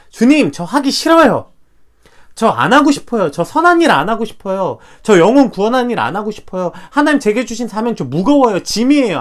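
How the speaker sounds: a grown man whining that he won't do it; whiny refusal. Acted. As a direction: complain like a reluctant servant. Voicing Moses refusing God.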